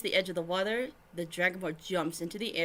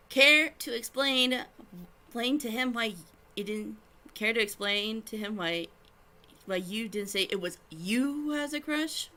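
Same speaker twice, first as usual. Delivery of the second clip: accusing; 4 semitones higher, 4 dB louder than usual. Acted. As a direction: press her, accusingly. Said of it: "glaring at her accusingly".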